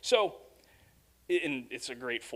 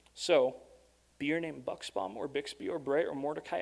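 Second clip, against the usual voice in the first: poem read aloud. A narrator's reading. Reads poem to its ending.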